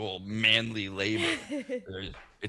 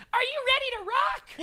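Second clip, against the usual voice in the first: much higher, bright hype cry; pumped-up rock call; 5 dB louder than usual. Retold or imitated. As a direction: imitate her calling out to rock the room. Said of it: "all of a sudden I hear her say".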